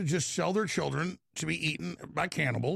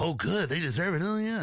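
mocking gloat. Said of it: "And people go".

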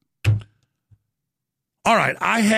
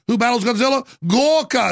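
movie trailer hype; 6 semitones higher than usual. Pretend. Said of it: "Godzilla parody".

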